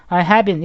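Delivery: "I have been" as one linked "a hae-bin"; linked pronunciation. Shown as a demonstration. Teacher showing it will be understood, "I have been" smoothly linked. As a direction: drop the separate v in "I have been". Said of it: "이러면 알아들으시겠죠".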